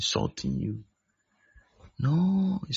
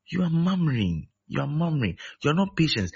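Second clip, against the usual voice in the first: raised rebuke; 7 semitones higher than usual. Real, not acted. Preacher rebuking murmurers.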